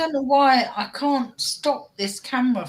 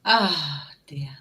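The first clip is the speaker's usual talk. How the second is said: whisper; 6 semitones lower, 6 dB quieter than usual. Real, not acted. Whispered echo.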